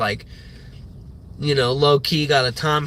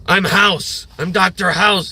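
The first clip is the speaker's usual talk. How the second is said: American accent impression; 3 semitones higher than usual. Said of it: "He speaks all English like, like a fucking Yankee".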